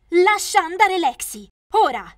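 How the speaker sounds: put-on a girl shouting to free her sister. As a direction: yell to stop her, high and loud. Sister being taken away, confronts.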